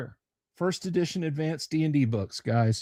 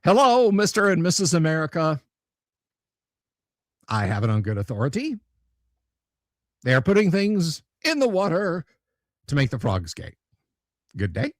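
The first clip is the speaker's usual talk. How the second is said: half-hearted conspiracy radio voice; Alex Jones impression; faster than usual. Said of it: "Or maybe we could flip it the other way around".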